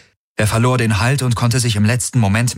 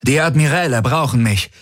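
high, pressing delivery; urgent command; 6 semitones higher than usual. A narrator's reading. Tari turning to Hox under fire, urgent command.

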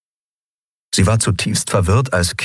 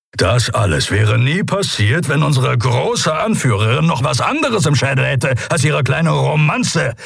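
bitter accusation; 8 semitones higher than usual. Acted. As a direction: accuse her, drawing out the jibe. Keru bitterly accuses Endriel.

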